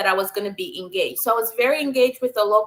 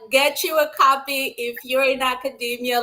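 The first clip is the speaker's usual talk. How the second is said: normal talking voice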